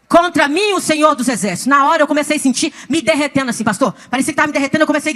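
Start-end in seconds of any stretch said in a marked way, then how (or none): 0.1-1.7 forceful repeat of the divine rebuke; imitating a mighty divine voice; voice of thunder. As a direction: declare it with authority. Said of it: "é uma voz de trovão".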